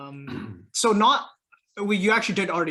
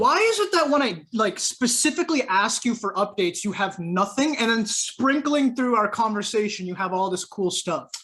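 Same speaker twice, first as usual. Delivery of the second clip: higher, louder teasing complaint; mock exasperation; 4 semitones higher, 4 dB louder than usual. Real, not acted. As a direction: protest in playful disbelief. Friend teases about withheld news.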